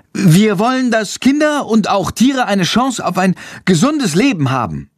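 put-on a boy speaking to a crowd, a little shaky; nervous, voice trembling. A narrator's reading. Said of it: "ist ein bisschen aufgeregt und seine Stimme zittert".

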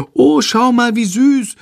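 high cooing over a puppy; delighted call. A narrator's reading. Passengers calling out over the runaway puppy, high and cooing. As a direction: gush at the cute dog. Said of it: "rufen andere Passagiere".

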